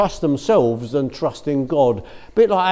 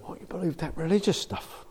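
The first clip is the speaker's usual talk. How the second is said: sneering; 4 semitones higher, 8 dB quieter than usual. Retold or imitated. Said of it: "they sneer at us and go".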